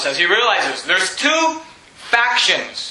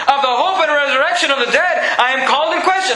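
raised voice, pitched up; yelling on; 3 semitones higher than usual. Retold or imitated. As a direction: keep crying out to the council. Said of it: "he begins to yell this".

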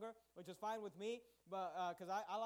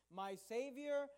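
"Savior" pitched up a little and stressed; emphasis on Savior; 3 semitones higher, 4 dB louder, much slower than usual. Shown as a demonstration. Preacher rereading verse to show its emphasis, emphatic. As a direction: lean firmly on "Savior". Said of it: "notice the emphasis".

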